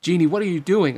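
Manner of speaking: high, loud protest; crying out. Acted. Aladdin protests to the genie, crying out. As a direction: cry out in alarmed disbelief. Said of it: "Aladdin cried".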